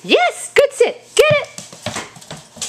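high, bright praise; squeaky praising a dog. Real, not acted. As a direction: gush at the good dog.

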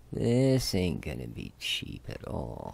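slowed-down, resigned emphasis; rueful emphasis. Real, not acted.

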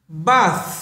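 "bath" ending on a breathy th; voiceless th. Shown as a demonstration. Teacher shows the unvoiced th sound. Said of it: "Âm vô thanh này".

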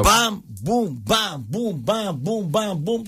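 spoken fight sound effects, evenly punched out; imitated punch noises. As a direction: act out a flurry of punches.

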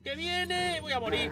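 1 pánico. Real, not acted. Enemigo se acerca.

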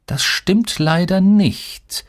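very slow, high, teasing drawl; mischievous contradiction. A narrator's reading. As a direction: stretch it out with sly relish. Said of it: "widersprach Marlon verschmitzt". (gedehnt und verschmitzt widersprechend)

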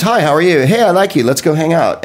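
bright, eager mock American greeting; overfriendly and quick to bond; chirpy fake-friendly hello; gushing American friendliness. American instant friendliness mocked.

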